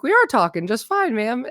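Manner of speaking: put-on protesting kids with a touch of redneck twang; mock hillbilly kid talking back. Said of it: "they sound like little redneck kids".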